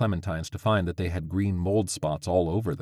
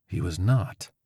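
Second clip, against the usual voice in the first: declaring; slower than usual. Acted. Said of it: "Crovis declared".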